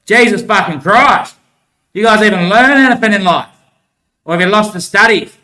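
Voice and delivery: a retold angry outburst, half-performed; mock angry yell. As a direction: bark it like someone yelling at fools. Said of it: "barking, yelling, screaming like".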